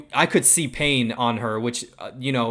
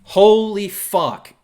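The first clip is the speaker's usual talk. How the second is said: slow, stunned, high swear; awed exclamation; 7 semitones higher, 8 dB louder, much slower than usual. Real, not acted. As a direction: let it out in disbelief. Awed reaction to finale.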